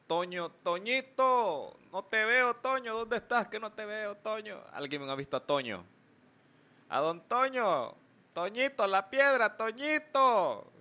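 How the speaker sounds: high, drawn-out calling for Toñito; mock calling out to a lost Toño. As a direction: call for Toño like he's lost.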